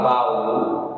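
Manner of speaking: "baú" slowed, with a long stressed ú at the end; stress on final U. Shown as a demonstration. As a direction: stretch the last vowel of "baú", ba-ÚÚ. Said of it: "o U ser a sílaba forte".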